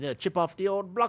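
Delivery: high, failed, bad put-on English accent. Riffing on the name Chippy, an attempted English accent. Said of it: "I tried to do an English accent".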